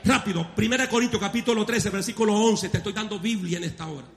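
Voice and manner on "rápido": calling out to congregation. Real, not acted.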